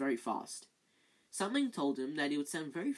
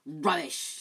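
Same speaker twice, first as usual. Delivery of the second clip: snarl; 6 dB louder than usual. Acted. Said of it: "snarled Filch".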